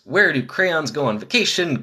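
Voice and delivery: rushed first read of the joke; hurried joke read; too fast. Real, not acted. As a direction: blurt the question out quickly. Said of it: "'cause I said it so fast".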